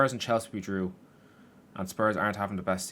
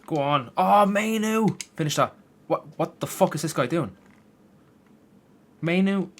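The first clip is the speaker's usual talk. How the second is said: much higher, loud yelling at a player who won't shoot; furious shout; 8 semitones higher, 8 dB louder than usual. Real, not acted. Gamer screaming at Mainoo for not shooting. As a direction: scream in disbelief at the screen.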